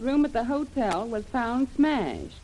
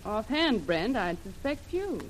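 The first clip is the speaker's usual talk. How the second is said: slow, softer, pointed jab; cool retort; 4 dB quieter, slower than usual. Acted. Lil coolly turning the suspicion on Brent, slow and soft. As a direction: drop it quietly and slowly, daring him.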